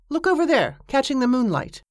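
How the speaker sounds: excited spotting. Acted. Mate points out the object.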